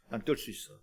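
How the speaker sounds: low, soft self-talk; hushed, determined murmur; quiet inner resolve. Acted. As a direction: tell yourself quietly, with growing determination. Voices blind man's resolve to himself.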